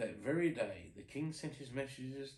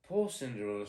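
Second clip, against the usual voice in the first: sad; 3 semitones lower, 6 dB louder, faster than usual. Acted. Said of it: "said the mice sadly".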